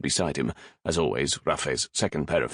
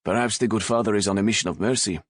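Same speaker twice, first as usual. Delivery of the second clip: wicked blandness; 4 semitones higher, faster than usual. Acted. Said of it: "with a wicked blandness".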